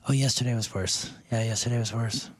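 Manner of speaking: hoarse, cracked voice. Real, not acted. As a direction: speak through a lost voice. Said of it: "you said you had no voice yesterday".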